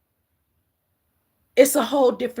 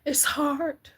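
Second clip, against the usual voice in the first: whisper; 5 semitones higher than usual. Real, not acted. Consoling the bereaved.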